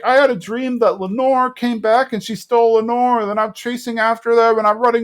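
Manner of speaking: high, rushed telling of a nightmare; high Bill voice. Retold or imitated. Bill telling Peggy his nightmare, high mock voice. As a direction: spill the dream out in a high mock voice.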